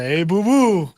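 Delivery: loud bro-style shout-out; frat bro. Retold or imitated. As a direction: call it out like a frat boy. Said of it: "real frat boy energy with the".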